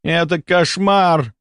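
slow, moaning lament; hammed-up groan of despair. A narrator's reading. Baron groans theatrically in front of the two ladies. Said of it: "простонал он".

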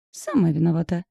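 ordinary delivery, nothing marked

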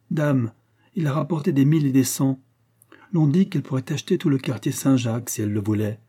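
chatty old woman sharing local news, lightly acted; vieille femme bavarde. (vieille femme bavarde, voix légèrement relevée)

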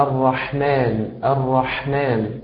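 الرحمن said slowly with a light, natural husky ح; slow model الرحمن, ح lightly rasped without exaggeration; correct ḥa. Shown as a demonstration. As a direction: demonstrate الرحمن with an unforced pharyngeal ح. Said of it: "هي أن تنطق بحرف الحاء هكذا".

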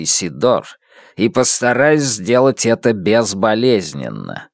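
a hint of a desperate metallic voice; plead, mechanical and cornered; metallic voice ringing with despair. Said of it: "Металлический голос тени звенит отчаянием".

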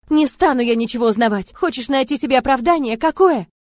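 furious screaming. Acted. Heroine screaming accusations at Murat, furious. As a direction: hurl every word at him.

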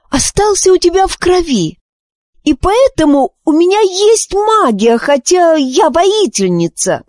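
put-on very high, urgent girl's cries; agitated exclaiming. Wish crying out to her mother, very high and agitated. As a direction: blurt it all out in a rush of excitement. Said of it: "разволновавшись, воскликнула Виш".

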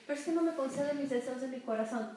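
a lightly voiced complaining believer; whiny believer. Believer grumbles to God, lightly voiced and whiny. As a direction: grumble that prayers go unanswered.

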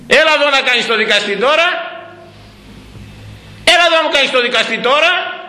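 high-pitched sarcastic summons; mock challenge. Mock challenge to the one judging.

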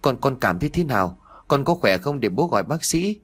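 fast, stumbling, lightly frightened father; stammering question. Acted. A scared father stammers a question to his son, hurried. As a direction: trip over the first word in mild fear. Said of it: "Anh lắp bắp hỏi con trai".

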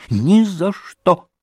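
put-on girl refusing to open the door, crying out. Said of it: "вскричала Лизе".

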